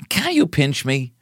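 slow, high put-on plea; hammed-up dreamy request; dreamer act. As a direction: draw it out, pitched high, as a mock dreamer. Dreamer asks to be pinched.

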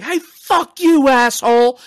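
high, drawn-out mock bellow; shouted insult. Host re-enacting the manager's sudden turn, high mock shout. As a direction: blast it out slowly, acting the manager. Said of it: "turn and be like".

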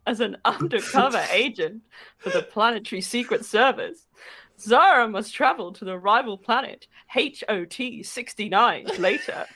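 mock-epic back-cover narration; theatrical narrator with measured phrasing; story blurb read. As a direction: read it like a pulpy trailer, pausing for effect. Continues the comic blurb.

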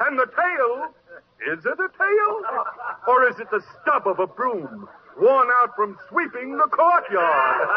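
showman mocking the donkey. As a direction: play the crowd for laughs. Dealer mocks donkey to crowd.

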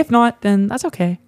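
lightly voiced girl, slow. Girl politely taking a drive-thru order, lightly put-on voice. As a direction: ease slowly through a mock girl voice. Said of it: "a girl voice".

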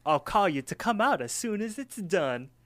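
high, put-on cartoon voice; high swooping pie voice; Promise Pie. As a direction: chirp it out as a falsetto character. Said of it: "He's like".

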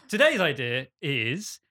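a hint of old man voice; lightly voiced old man, slowed. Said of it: "That's my old man voice".

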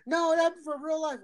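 insistent mom. Retold or imitated. Son imitating his mom defending the fake show, high insistent. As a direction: lightly mimic mom insisting, high and slow.

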